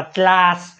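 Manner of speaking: ક્લાસ said as "chlas", CH in place of K; misreading with CH. Shown as a demonstration. Teacher quotes someone misreading ક્લાસ, with CH before L. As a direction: swap the K of ક્લાસ for a CH. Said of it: "કોઈએ વાંચ્યું?".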